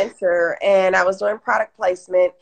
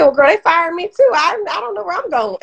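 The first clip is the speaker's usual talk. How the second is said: laughing confession; 9 semitones higher, 3 dB louder than usual. Retold or imitated. Quoting friend Rochelle, laughing.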